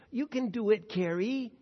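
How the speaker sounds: mild mock yell of encouragement; retold coach yell. Coach cheering his gymnast on, mild mock yell. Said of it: "Bella Caroli yelling, uh, at the top of his lungs".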